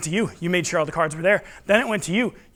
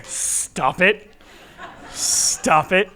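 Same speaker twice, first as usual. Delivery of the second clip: laughing mock protest; much slower than usual. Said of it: "I don't need your pity".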